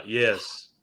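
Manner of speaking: low, soft grown-up "yes"; composed grown-up voice, played for a joke; adult voice. Shown as a demonstration. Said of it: "let me use my adult voice now".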